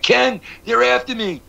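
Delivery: high, breathless mock panic; a hint of a kid fleeing in fear; imitating a scared friend, pitched high; panicked friend. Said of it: "he'd run past the classroom like".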